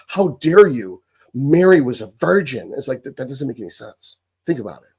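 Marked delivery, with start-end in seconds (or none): 0.1-2.7 mock outrage. Mocking offended believers, hammed-up indignant outrage. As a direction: play the offended believer, scandalised.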